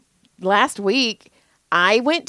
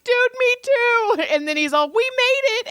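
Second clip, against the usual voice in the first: mock stranger. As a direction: cheer like a fellow stranded driver. Stranger voiced in story.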